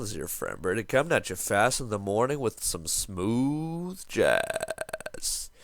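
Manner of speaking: lightly put-on late-night jazz host; sexy morning voice. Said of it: "super sexy morning voice".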